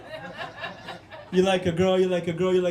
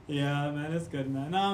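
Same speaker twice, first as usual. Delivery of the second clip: ordinary delivery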